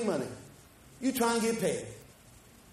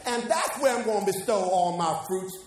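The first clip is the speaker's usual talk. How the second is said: rich farmer musing. Retold or imitated. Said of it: "the man thought within himself".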